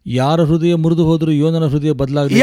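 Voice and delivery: loud, forceful proclamation; match the preacher's fire at full volume; impassioned preaching. Real, not acted. Interpreter echoes the preacher's climax. (ಆವೇಶದಿಂದ ಗಟ್ಟಿಯಾಗಿ ಸಾರುವ ಧ್ವನಿ)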